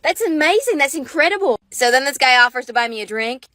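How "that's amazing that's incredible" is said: gushing mock-Australian voice; excited fake Australian; fake Australian accent. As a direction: gush in a put-on Aussie accent. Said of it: "with our stupid Australian accent".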